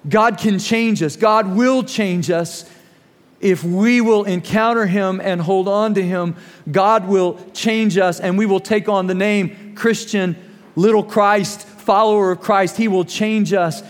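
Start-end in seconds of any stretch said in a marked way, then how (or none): 0.1-10.4 slow preaching. Real, not acted. Preaching emphasis.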